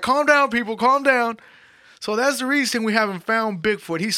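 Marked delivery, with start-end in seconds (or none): 0.0-1.4 mock calming Bobo. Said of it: "and he's like".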